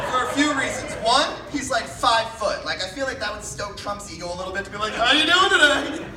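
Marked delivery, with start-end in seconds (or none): 4.9-6.0 Tom Cruise voice. Retold or imitated.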